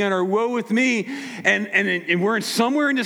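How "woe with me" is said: lightly mocking gloomy moan, a touch higher; a hint of a self-pitying Eeyore; mild mock misery; mopey Eeyore. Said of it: "think they have no gifting".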